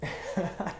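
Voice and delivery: short, light chuckle; laugh. Real, not acted. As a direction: chuckle before going on. Laughs at his own gloomy turn.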